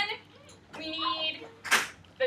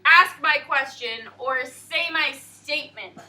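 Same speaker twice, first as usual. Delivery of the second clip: loud, slow teacher question; 11 dB louder, slower than usual. Shown as a demonstration. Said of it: "teacher asks class slowly".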